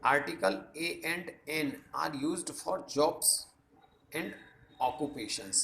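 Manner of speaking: reading a grammar rule very slowly; slow classroom dictation. Shown as a demonstration. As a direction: spell the rule out slowly for notes. Reads rule slowly, dictation pace.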